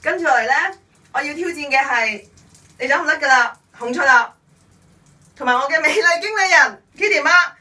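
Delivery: high, loud, gasping from the icy drench; in ice cold water. Real, not acted. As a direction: shout through the freezing shock. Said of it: "好凍啊！".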